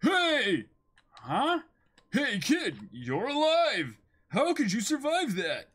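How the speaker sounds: high, loud hero voice; shouted cartoon lines. Hero shouting to a survivor, loud and high.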